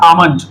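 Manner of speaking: almond, said slowly and carefully with the l sounded; slow pronunciation. Shown as a demonstration. Teacher slowly modelling almond for the class. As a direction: spell out almond by ear, syllable by syllable. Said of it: "this is exactly pronounced".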